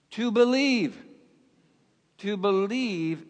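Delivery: emphatic answer. Real, not acted. Answer preacher drives home.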